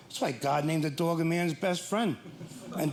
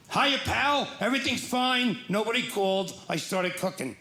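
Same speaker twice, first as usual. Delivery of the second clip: voicing the dog; 3 semitones higher than usual. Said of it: "my dog's like this".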